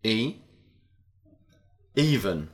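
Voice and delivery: each word said carefully and clearly; teacher modelling the sound E; model short e. Shown as a demonstration. Teacher models letter E words for repetition. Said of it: "Letter E and sound".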